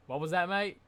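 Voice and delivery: shaky-attempt Australian mate impression; Australian accent. Friendly fighter asking a fan to repeat it, Australian accent. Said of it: "try to do an Australian accent".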